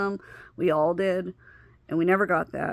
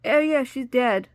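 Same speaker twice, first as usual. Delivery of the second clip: mock-casual, higher voice; mocking callous voice; 5 semitones higher, 4 dB louder than usual. Mocking Amanda telling a child her mom died. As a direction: mimic her flippancy with scorn. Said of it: "Now you're gonna just".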